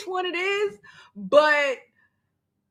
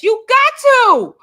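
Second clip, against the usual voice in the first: loud, higher, slow and firm; emphatic; 5 semitones higher, 9 dB louder, slower than usual. Real, not acted. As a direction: insist hard, leaning on got. Agreeing forcefully with a viewer.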